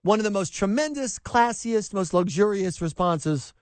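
Trump impression. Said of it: "giving into my inner Donald Trump".

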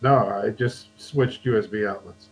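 thin, distant laptop microphone; laptop mic. Real, not acted. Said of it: "you sound like you're on your laptop mic now".

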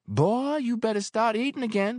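put-on landlady warning the thin boy. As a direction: scold him to eat. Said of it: "she warned".

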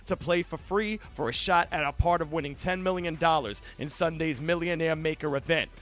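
even, polished sponsor read. Acted. Host pitching a fantasy football contest to listeners, ad-read delivery. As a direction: sell it like a radio promo.

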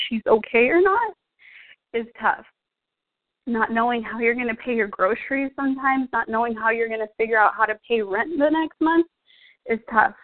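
fighting tears while speaking; emotional. Real, not acted. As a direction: voice rising and tightening as she holds back tears. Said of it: "I'm apologizing right now if I get really emotional".

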